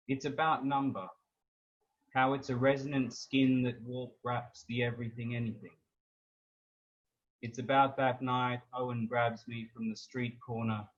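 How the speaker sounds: measured recital with long pauses between lines; spoken-word poem, deliberate phrasing; poetry reading. Acted. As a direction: recite a prose poem, each phrase starting strong and falling away. Poet reads own poem aloud.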